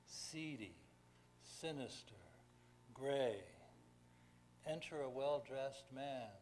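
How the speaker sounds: measured ballad reading with pauses between lines; poem recitation. Acted. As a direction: recite an old-fashioned ballad, line by line. Reads his ballad aloud.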